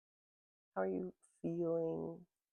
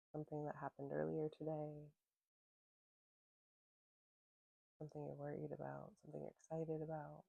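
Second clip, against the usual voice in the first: calm, spaced-out questions, fading softly at the end; unhurried mindfulness guide; guided meditation; 6 dB quieter than usual. Real, not acted. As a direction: gently invite listeners to look inward. Leads a grounding meditation.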